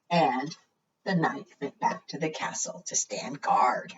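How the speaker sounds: soft hushed whisper; whispered narration while the dragons sleep. Acted. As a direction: whisper so the dragons stay asleep.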